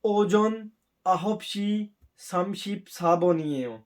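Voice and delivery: slow, careful Korean time announcement; slow Korean test recording. Retold or imitated. Teacher imitating the exam recording, slow Korean. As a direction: read each Korean syllable slowly and clearly. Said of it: "अभी वो बोलेगी".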